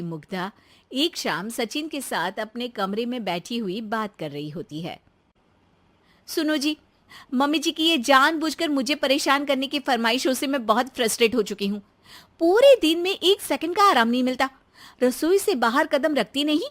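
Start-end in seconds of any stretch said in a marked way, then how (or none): 6.3-16.6 lightly voiced fed-up wife complaining; frustrated daughter-in-law. Wife venting to her husband about his mother's demands, frustrated.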